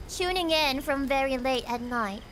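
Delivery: British accent with "tuning" said as "chooning"; British "tuning", ch in place of t. Shown as a demonstration. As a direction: put on British, "tuning" starting with a ch sound. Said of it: "I don't think my accent is perfect".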